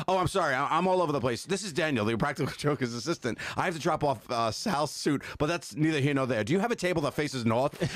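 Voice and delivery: high, frantic assistant voice; Daniel voice. Retold or imitated. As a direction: play the frazzled assistant. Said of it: "They're like".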